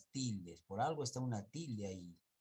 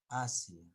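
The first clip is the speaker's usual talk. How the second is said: "Asia" stressed on the first A, two syllables; lectura correcta; 4 dB louder than usual. Shown as a demonstration. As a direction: model "Asia" as A-sia, falling. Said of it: "has cambiado por otra palabra". («Asia» con fuerza en la primera A)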